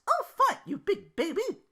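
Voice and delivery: put-on high loud grudging snap, slow on baby; angry reply. Belle grudgingly giving in to Duke, high and loud. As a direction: give in, furious. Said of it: "Belle angrily answered".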